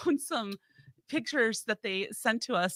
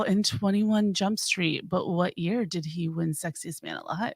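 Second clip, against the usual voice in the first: sexy radio voice; 3 semitones lower than usual. Acted. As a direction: purr it like a late-night radio host. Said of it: "busting a little sexy radio voice".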